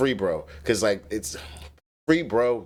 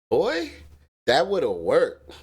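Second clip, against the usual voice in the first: hyped emphasis; excited; 6 semitones higher, much slower than usual. Real, not acted. Stressing the missed chance.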